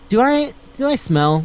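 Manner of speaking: high, hesitant little question; acted insecure girl; self-conscious asking. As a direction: stammer it timidly, up high.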